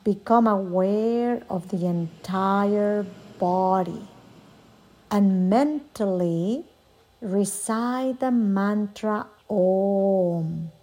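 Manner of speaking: guided meditation, long pauses. Acted. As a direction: lead a yoga nidra, unhurried. Leads a yoga nidra meditation.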